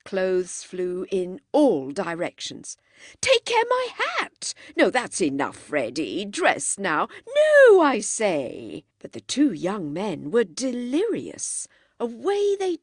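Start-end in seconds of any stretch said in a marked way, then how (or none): 3.2-8.8 alarmed cry. A narrator's reading. Mister Beebe cries to the boys about his watch, high alarmed cry. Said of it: "cried Mister Beebe".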